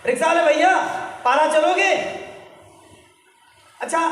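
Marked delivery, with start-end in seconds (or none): 0.1-1.9 re-enacted polite call to a driver; acting out flagging down a ride; hailing a rickshaw. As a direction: call out a higher-pitched question to the rickshaw man. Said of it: "ऐसे ही मैंने बोला".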